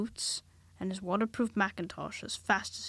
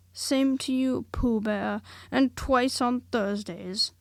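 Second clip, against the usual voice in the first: gloomily; 3 semitones higher, 5 dB louder, slower than usual. Acted. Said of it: "said Eeyore gloomily".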